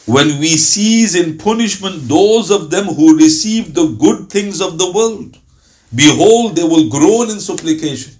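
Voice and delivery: slow, weighty scripture reading; solemn verse reading. Acted. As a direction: read the verse slowly, like holy text. Reciting verse translation aloud.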